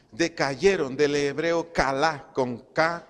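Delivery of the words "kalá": kalá with the final A stressed; stress on second A. Shown as a demonstration. Preacher teaching a Hebrew word, kalá stressed on the final A. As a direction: put the weight on the last A of kalá. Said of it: "acento en la segunda A".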